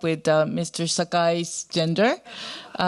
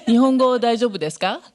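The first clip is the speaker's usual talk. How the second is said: laughing; 6 semitones higher, 4 dB louder, faster than usual. Real, not acted. Laughing check audience knows Japanese.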